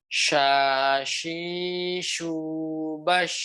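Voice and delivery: "Sha, shi, shu, bash" each sh spread across the mouth; shin with vowels demo. Shown as a demonstration. Teacher demonstrating shin drills for the class. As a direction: model the shin with fatha, kasra, damma and sukun. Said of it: "Sekali lagi".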